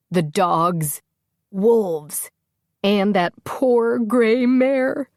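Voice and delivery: building from slow tearful dread to a loud, high cry; rising panic. Acted. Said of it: "make her louder and more panicked".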